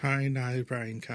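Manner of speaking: northern Irish accent. Shown as a demonstration. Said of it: "there's your northern accent".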